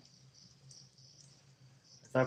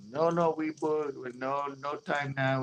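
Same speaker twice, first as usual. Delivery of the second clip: mock Asian accent; 5 semitones higher, 5 dB quieter, slower than usual. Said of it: "she was Asian".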